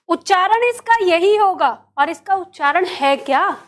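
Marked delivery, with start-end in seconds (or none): none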